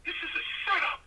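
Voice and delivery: can't keep a straight face while acting the panic; cracking up mid-line; laughing. Real, not acted. Laughing through the punchline.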